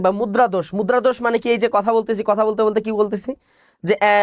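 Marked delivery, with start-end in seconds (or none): 3.8-4.2 filler tones demo. Shown as a demonstration. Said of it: "এই যে টোনগুলো".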